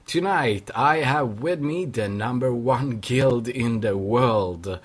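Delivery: slow grand announcer voice; epic announcer intro. Shown as a demonstration. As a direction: announce it like a big show opener. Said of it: "that was a fucking epic intro".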